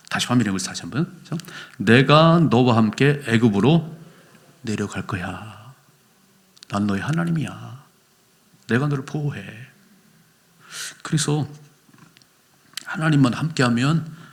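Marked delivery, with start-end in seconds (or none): 1.8-9.4 tender God voice. Acted. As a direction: reassure him gently, slowly. God speaking tenderly to Jacob. (야곱에게 부드럽게 안심시키는 하나님)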